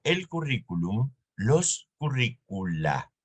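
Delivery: curricula said slowly and deliberately; careful model form. Shown as a demonstration. Teacher models the Latin plural, slow and clear. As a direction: draw out los curricula as the right plural. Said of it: "Entonces yo digo".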